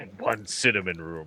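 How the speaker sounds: said under one's breath. Adding a quiet last request when paying for the rooms: muttered under breath. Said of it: "did you cough it under your voice?".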